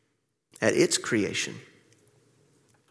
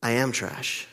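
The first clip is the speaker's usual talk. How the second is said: inner voice self-contempt; 4 semitones lower, 6 dB quieter than usual. Retold or imitated. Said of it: "instead of saying".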